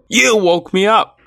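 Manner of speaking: high, loud roar of an angry lion. A narrator's reading. Lion just woken by the mouse, roaring. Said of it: "roared the lion".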